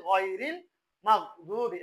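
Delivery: গায়রিল with throaty GH, মাগদুবি with closed GH before heavy D; correct recitation. Shown as a demonstration. Teacher reads it properly before the mistake, smooth মাগদুবি. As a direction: recite মাগদুবি without a bounce after GH. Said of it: "অনেকজন বলে এই যে".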